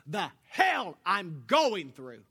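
slow, loud, furious outburst; angry through teeth. Retold or imitated. In a coworker's face over leaving, a slow furious shout. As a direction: spit each word out slowly, loud. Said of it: "my teeth are together".

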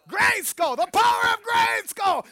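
high, loud triumphant shout; He-Man battle cry. Acted. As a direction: bellow it like a cartoon hero raising a sword. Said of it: "Linda like He-Man".

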